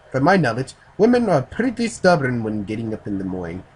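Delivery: lightly put-on Japanese accent; a first, milder try at a Japanese accent; attempted Japanese accent. Reader voices the Japanese man on waking women, light Japanese accent. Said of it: "I can't do a Japanese accent".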